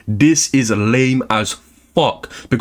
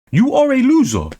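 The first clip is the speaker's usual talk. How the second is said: yelled insult; 10 semitones higher than usual. Shown as a demonstration. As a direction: shout it the second time.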